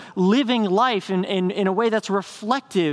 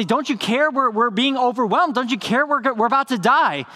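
raised, urgent cry of frightened fishermen; panicked plea; 5 semitones higher than usual. Acted. Disciples waking Jesus in the storm, panicked plea.

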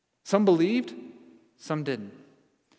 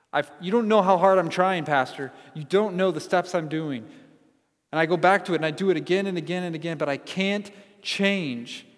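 louder pleading, rushing then slowing on the last words; desperate plea; 3 semitones higher, 6 dB louder than usual. Retold or imitated. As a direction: beg the pastor, nearly breaking. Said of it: "your heart says".

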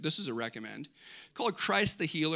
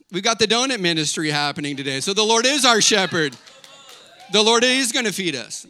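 loud, raised declaration; emphatic preaching; 3 semitones higher, 7 dB louder than usual. Real, not acted. Pastor rallying the congregation about God feeding them, emphatic preaching. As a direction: build into a loud proclamation.

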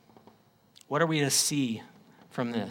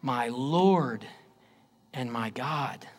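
much softer and lower, falling away; hushed; 5 semitones lower, 5 dB quieter, slower than usual. Acted. Preacher softly repeating Thomas's confession to the congregation. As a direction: breathe it out in awe. Quiet echo after scripture.

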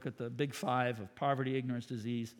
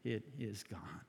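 simple; 5 semitones lower, 10 dB quieter, slower than usual. Retold or imitated. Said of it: "she simply said".

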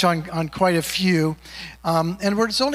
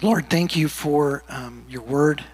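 hesitant, lower-pitched prayer with long pauses; 4 semitones lower than usual. Real, not acted. Leads a prayer.

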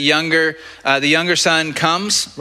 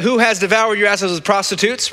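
indignant whine; 6 semitones higher than usual. Retold or imitated. Older son complaining to father.

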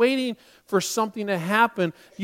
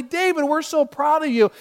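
imagined proud cheering; 7 semitones higher than usual. Retold or imitated. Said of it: "cheering him on".

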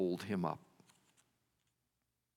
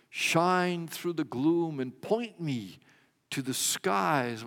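quoting a hymn; 3 semitones higher, slower than usual. Acted. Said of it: "As the songwriter puts it".

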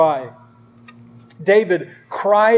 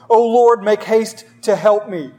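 urgent desperate plea; 2 semitones higher than usual. Acted. Pastor reading David's psalm aloud, urgent desperate plea. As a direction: read it as a man begging for rescue. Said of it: "Listen to the urgency and the desperation".

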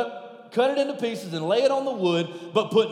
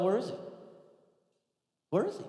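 Elijah taunting; 10 dB quieter, much faster than usual. Acted. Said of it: "what Elijah is saying?".

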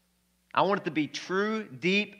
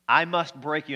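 lightly put-on Russian accent; a touch of Russian-accented menace; 3 dB louder than usual. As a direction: play the Russian boxer, accent and all. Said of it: "That's my Russian accent".

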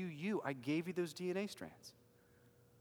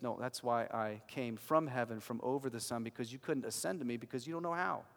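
gentle voice of Jesus; 4 semitones lower, 3 dB quieter than usual. Acted. Jesus voiced speaking to the soul.

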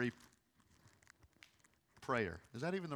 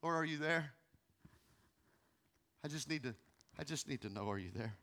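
whisper-close plea to a silent God; quiet, halting, searching prayer; soft desperate prayer; 2 semitones lower, 9 dB quieter than usual. Retold or imitated. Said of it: "that's all we can say".

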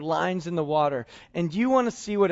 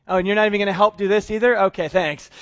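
quick, sarcastic grumble about doing all the work; a touch of mock annoyance; 4 dB louder, faster than usual. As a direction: roll your eyes at the helper who won't help. Fishermen sarcastic at Jesus.

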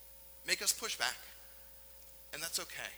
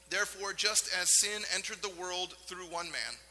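measured, solemn reading of Paul; scripture reading. Acted. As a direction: read it out like the Bible passage it is. Reads Romans aloud.

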